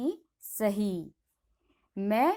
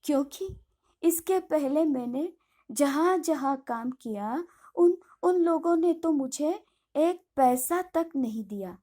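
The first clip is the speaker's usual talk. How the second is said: frightened voice; 3 semitones higher than usual. Acted. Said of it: "भयभीत स्वर में कहती है".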